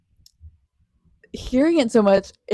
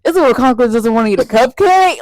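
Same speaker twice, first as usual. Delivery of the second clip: imitating him; 5 dB louder than usual. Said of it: "especially when he was like".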